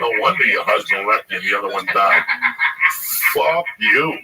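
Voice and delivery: loud retold angry outburst; pissed. Son retelling his row with mother, pissed and cursing. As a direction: lash back hard, reliving the row. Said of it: "I was, I was pissed".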